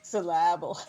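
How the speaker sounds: "Syllable" echoed as syl-LAB-le; playful echo of "Syllable" with the middle beat stressed; misplaced stress. Retold or imitated. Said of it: "emphasis on the right syllable".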